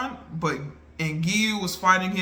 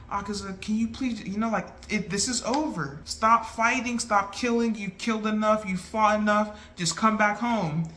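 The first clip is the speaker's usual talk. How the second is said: pleading wife; 4 semitones higher than usual. Retold or imitated.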